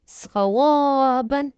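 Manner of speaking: स्क्वाबन said slowly with the final बन; correct reading. Shown as a demonstration. Teacher showing students how to end the word. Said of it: "नहीं करेंगे".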